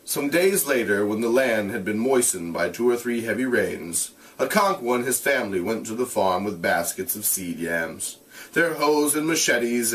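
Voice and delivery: steady read-aloud voice; measured narration; story narration. A narrator's reading. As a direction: read the novel to the class. Reads novel aloud to class.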